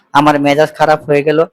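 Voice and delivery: ordinary delivery, nothing marked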